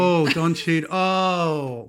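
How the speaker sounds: loud, high groan of disbelief; exasperated dismay. Real, not acted. Husband to wife about a bad film accent, exasperated. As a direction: groan loudly as if it pains you.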